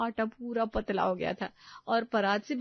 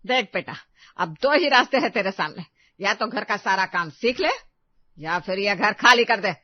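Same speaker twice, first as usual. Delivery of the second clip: a touch of anger, firm ultimatum; angry ultimatum; 2 semitones lower, 4 dB louder than usual. Acted. Mother-in-law giving bride an ultimatum, mildly angry. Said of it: "गुस्से से बोली".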